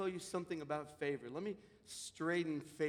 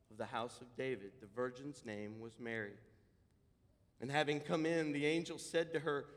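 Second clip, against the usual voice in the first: scripture reading; 3 semitones lower than usual. Acted. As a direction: read the verses steady and low. Reads scripture aloud.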